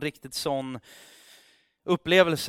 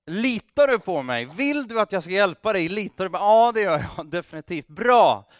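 higher, louder eager retelling; excited retelling; 4 semitones higher, 6 dB louder than usual. Retold or imitated. Preacher excitedly replays God and the climber. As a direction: rush through the exchange.

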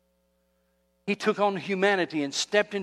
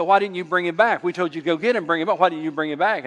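louder, mildly upset scolding in imitation; upset demanding; 4 dB louder, faster than usual. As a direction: act out annoyed leaders demanding answers. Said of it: "they get all upset".

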